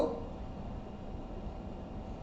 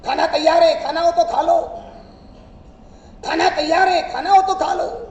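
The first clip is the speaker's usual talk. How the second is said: calling out loudly in a nagging wife voice; mock yell; 4 dB louder than usual. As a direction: shout it like an impatient wife calling him to eat. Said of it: "પત્નીએ રાડ પાડી".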